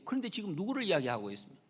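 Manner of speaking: ordinary talk, nothing marked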